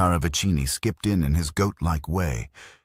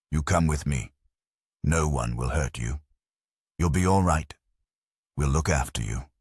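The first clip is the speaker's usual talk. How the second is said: gently. A narrator's reading. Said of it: "he spoke quite gently".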